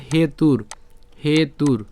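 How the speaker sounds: হেতুর ending on a bare r; model pronunciation. Shown as a demonstration. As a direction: say হেতুর as he-tur, no vowel after r. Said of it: "তাহলে উচ্চারণটা কেমন হবে?". (হেতুর-এর শেষে র হসন্ত)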